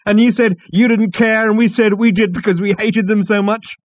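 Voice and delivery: loud, high, tipsy bonhomie; drunk loud greeting. A narrator's reading. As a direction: call out drunkenly across the room. Drunk Ford rambling loudly.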